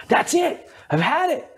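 playing the sweet friend who finally blows up; friend snapping at me. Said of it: "she just goes".

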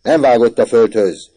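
loud, high cry of denial; shouted protest. A narrator's reading. Orci denying it before his mother, shouted protest. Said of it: "kiáltott Orci".

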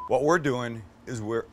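choked up after a bug; just swallowed a bug. Real, not acted. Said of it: "I swallowed a bug".

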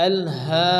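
"হা" drawn out for one beat; teacher's chanted long "হা"; elongated vowel. Shown as a demonstration. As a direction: stretch "হা" in "আল হা". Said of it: "হাকে এক আলিফ পরিমাণ টান".

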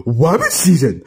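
"Rabbit" said as "wabbit", pitched low; low cartoon duck with R turned to W in "Rabbit"; cartoon speech impediment. Cuphead playing Daffy's role in an argument, "Rabbit" as "wabbit". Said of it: "you were so off the speech impediment".

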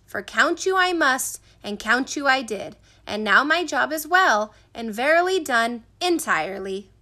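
measured, solemn declaration. A narrator's reading. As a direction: pronounce it like an oath. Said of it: "raised his hand solemnly and said".

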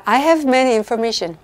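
"I have many information" read very slowly and evenly; slow, clear quiz reading. Shown as a demonstration. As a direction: read the quiz sentence slowly so students can judge it. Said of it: "저 읽어드리면 또 다 괜찮게 들리죠?".

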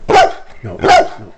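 loud scolding no; sharp shout. Real, not acted. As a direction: bark the word at the dog. Scolding barking dog.

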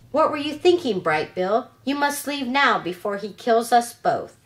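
a hint of a frightened mother telling him to leave; worried robot mother. Mother scolds son in danger.

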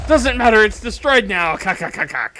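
demon voice. Acted. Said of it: "that's a terrible demon voice".

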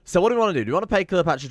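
high lightly voiced son; mock high voice. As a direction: pitch it way up like the son speaking. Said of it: "he says".

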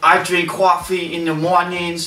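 put-on amateur Brooklyn accent; New York accent. Joining in about coffee, mock New York accent. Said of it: "my next accent is New York".

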